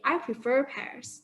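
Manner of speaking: "I prefer pears" with a clear rhotic R at the end of "prefer"; American R sounded. Shown as a demonstration. Teacher demonstrating American pronunciation, R kept. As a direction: sound the R in "prefer", slow and careful. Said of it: "Americans would say".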